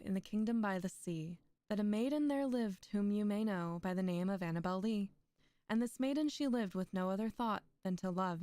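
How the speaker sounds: rhythmic verse, lifted openings, falling line ends; metered poetry recital. A narrator's reading. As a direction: keep the meter steady as you recite. Recites Annabel Lee in meter.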